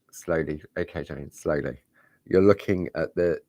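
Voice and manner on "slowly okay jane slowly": calm. Real, not acted. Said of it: "rather than looking at the wheel".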